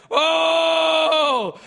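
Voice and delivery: high, loud startled oh; loud scared cry; frightened shout. Retold or imitated. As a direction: yelp it as the croc comes for you. Crocodile coming at him.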